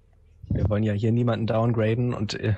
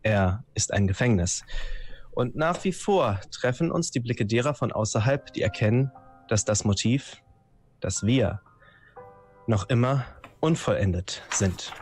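solemn, measured prologue voice; ominous intro reading. A narrator's reading. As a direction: read it like a dark prologue. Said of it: "einleitende Worte verlesen".

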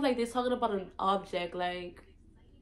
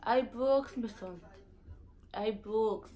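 Virgin Islands accent; slower than usual. Shown as a demonstration. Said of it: "Next one is".

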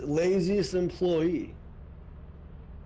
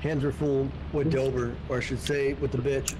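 talking with mouth full; 4 semitones lower than usual. Real, not acted. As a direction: speak through a mouthful. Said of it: "why's your mouth full right now".

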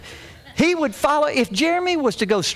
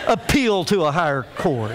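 put-on lower, disbelieving repeat of the child's phrase; incredulous echo; 4 semitones lower than usual. Dad echoes four-year-old's big words, incredulous. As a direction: quote it back in mock disbelief.

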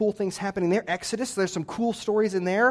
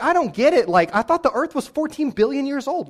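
louder, higher frustrated complaint; frustrated outburst; 9 semitones higher, 6 dB louder than usual. Retold or imitated. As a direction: vent the confusion loudly. Frustrated at Genesis vs science.

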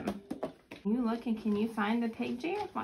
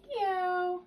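meow; 8 semitones higher than usual. Pretend. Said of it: "He says".

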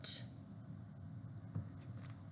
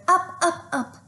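rising up up; 8 semitones higher than usual. A narrator's reading. Reading to kids, voice rising with the jump. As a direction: voice climbs on up, up. Read-aloud of kids springing up.

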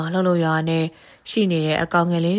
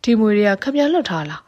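higher, louder cry of alarm at the snakes; frightened shout; 4 semitones higher, 4 dB louder than usual. A narrator's reading. Thief spots the snakes and yells at the old man, frightened shout. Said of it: "အဲ့လိုအော်ဟစ်လိုက်တော့တယ်".

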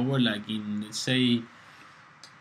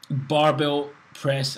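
hyped announcement; 4 semitones higher, 7 dB louder, much slower than usual. Real, not acted. Announcing the next exercise.

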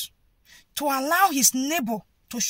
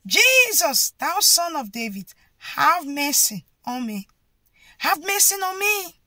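shouting; 3 semitones higher, 3 dB louder than usual. Retold or imitated. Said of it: "continued to shout".

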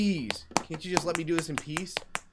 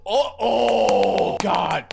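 mock ecstasy; 7 semitones higher, 8 dB louder, much slower than usual.

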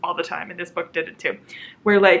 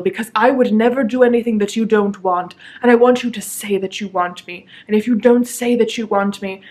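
mock earnest romance hero; 3 dB louder than usual. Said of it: "the dude will just stop to be like".

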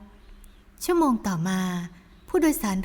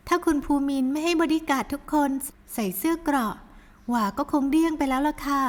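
higher daughter's voice, corrected read; lightly voiced young daughter; young woman's voice; 5 semitones higher than usual. Daughter tells her mother the vests saved her.

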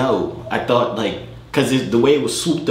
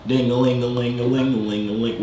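mock guitar strum. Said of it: "so play the guitar".

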